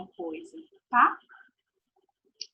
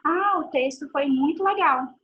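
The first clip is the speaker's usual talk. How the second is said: bright, higher exclaimed opinion; cheerful exclamation; 4 semitones higher, 4 dB louder than usual. Shown as a demonstration. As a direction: gush a little about the text. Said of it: "você vai poder dar uma opinião". (opinião exclamada com alegria)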